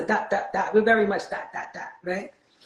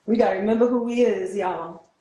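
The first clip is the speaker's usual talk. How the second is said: emphatic echo; 3 semitones higher than usual. Acted. Echoing his line with emphasis.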